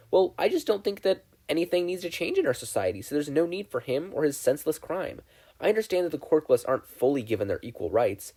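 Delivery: lightly voiced proud student; a hint of a know-it-all girl; snooty schoolgirl. Yaoyorozu voiced by narrator.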